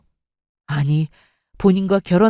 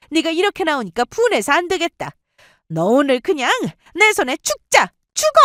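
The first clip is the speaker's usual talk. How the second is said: high-pitched, escalating tirade; furious mother; 9 semitones higher than usual. Acted. Boyfriend's mother threatens the girlfriend who talked back, enraged. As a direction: shriek the threats, rising to an outburst.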